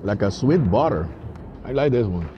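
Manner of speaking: muffled through fist; talking behind hand. Real, not acted. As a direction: hand covering mouth. Seen 0: Fist held at mouth while talking; chewing seen only earlier.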